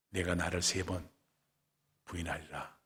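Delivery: low, very soft grave words; quiet, solemn foretelling; hushed prediction. Acted. Quoting Jesus's sad prediction.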